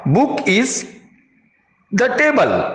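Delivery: Book is the table read as the broken example; wrong version without on. Shown as a demonstration. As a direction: rise on table to show it sounds off. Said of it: "यदि हम on नहीं लगाएं".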